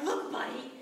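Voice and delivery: angry rant, peaking loud on the insults; retold lash-out. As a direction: lay into him, building to a loud blast. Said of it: "I lashed out and I was like".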